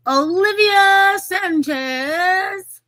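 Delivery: slow, high, loud ring announcer; boxer announcer voice. Acted. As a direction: stretch the name out like a ring announcer. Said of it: "Wow, my boxer, uh, voice".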